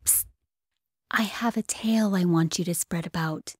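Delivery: breathy secret whisper. Acted. Electric whisper confiding a tale to the listener, whispered. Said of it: "said the electric whisper".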